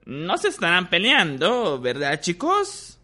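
squeaky little professor voice. Acted. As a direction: squeak it like a tiny teacher. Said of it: "preguntó con voz chillona".

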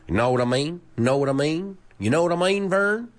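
lightly voiced Southern catchphrase; Jim Varney's Ernest. Teacher quoting a comedy character's catchphrase, light Southern impression. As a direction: drop a hint of a folksy Southern character. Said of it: "his catchphrase was".

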